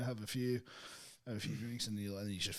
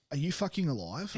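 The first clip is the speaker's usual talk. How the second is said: alarmed disbelief; 7 semitones higher, 5 dB louder than usual. Retold or imitated. Acting out partner's reaction to snoring.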